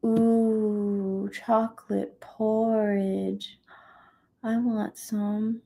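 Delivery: slow, dreamy craving; longing. Real, not acted. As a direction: draw it out with longing.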